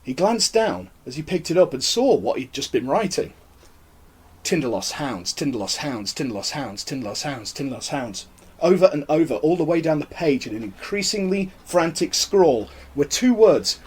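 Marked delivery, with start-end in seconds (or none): 4.4-8.2 chanted, dropping softer each time; fading obsessive murmur. A narrator's reading. Webster reading his frantic scrawl, fading murmur. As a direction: repeat it like a trance, fading away.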